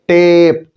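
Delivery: टेप with the ए held long; long ए sound. Shown as a demonstration. Teacher demonstrates stretched ए in टेप to students. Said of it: "लंबा खींचा।".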